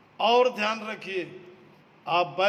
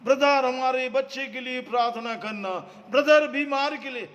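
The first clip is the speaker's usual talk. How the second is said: rising, louder, faster begging; brother called out more and more desperately; pleading believers; 5 semitones higher, 4 dB louder than usual. Retold or imitated. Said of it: "इधर उधर मुंह ताकते हैं". (प्रार्थना के लिए गिड़गिड़ाते लोगों की नकल, ऊँची होती आवाज़ में)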